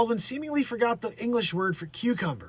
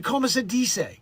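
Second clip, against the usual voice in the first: mock Spanish accent; 5 semitones higher than usual. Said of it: "She said".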